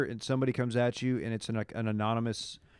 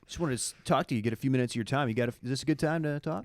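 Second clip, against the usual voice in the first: lightly mimicked telephone salesman; sales-call voice; faster than usual. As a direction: put on a touch of cold-caller patter. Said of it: "That guy has the ultimate sales voice".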